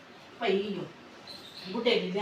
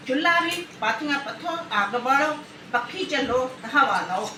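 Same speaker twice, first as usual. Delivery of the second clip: sing-song listing; 4 semitones higher than usual. Acted. Listing old chores mockingly.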